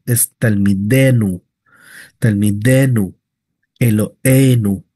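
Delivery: teacher confirming the right forms; correct forms. Shown as a demonstration. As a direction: say Talmidenu and Elohenu cleanly. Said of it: "no es Talmideinu".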